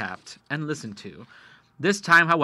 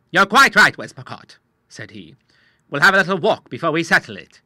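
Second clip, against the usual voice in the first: put-on old admiral voice; 4 semitones higher, 11 dB louder than usual. The Admiral speaks.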